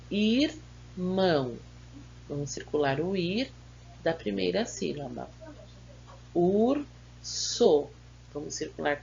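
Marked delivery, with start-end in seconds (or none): 0.1-1.6 "Irmão" very slowly, in two separate syllables; "Irmão" syllable by syllable with a gap; split into syllables. Shown as a demonstration. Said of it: "Separe as sílabas dessas palavras". 6.3-7.9 "Urso" in two separate syllables; split into syllables. Shown as a demonstration. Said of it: "Separe as sílabas dessas palavras".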